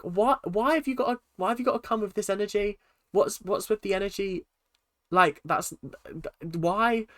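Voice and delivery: high, baffled outrage; baffled mock outrage. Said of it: "I was like".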